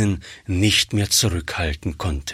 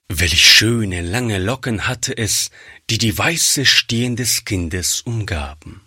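ordinary delivery, nothing marked

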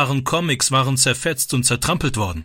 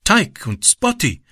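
lightly voiced young boy, higher; a boy speaking broken German, higher; shy boy voice; 6 semitones higher, slower than usual. A narrator's reading.

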